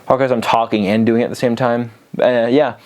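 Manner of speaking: winded after the exercises; out of breath. Real, not acted. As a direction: catch your breath as you talk. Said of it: "I'm so out of breath".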